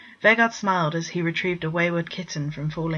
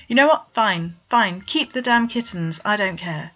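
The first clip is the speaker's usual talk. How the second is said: exasperated giving in; 3 semitones higher, 4 dB louder than usual. Acted. Bord gives in, exasperated.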